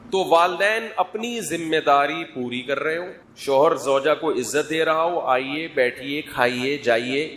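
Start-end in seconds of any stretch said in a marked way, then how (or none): 5.2-7.3 mildly courteous invitations; polite, respectful. Retold or imitated. Husband politely inviting his wife in, respectful. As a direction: imitate a well-mannered, respectful husband. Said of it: "اس طرح سے تمیز سے بات کر رہا ہو".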